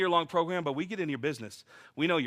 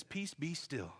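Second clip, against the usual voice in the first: quiet command; 11 dB quieter, slower than usual. Acted. Jesus calms the storm.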